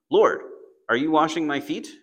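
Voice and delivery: loud, surprised Lord, rising on washing; a loud, incredulous question to Jesus; startled question. Retold or imitated. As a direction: Peter blurting out in surprise.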